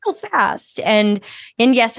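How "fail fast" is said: mildly sarcastic voicing of deadline-driven companies; mock their priorities with light sarcasm. Consultant mimics deadline-obsessed companies to the host, a little sarcastic. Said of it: "I'm being a little sarcastic there".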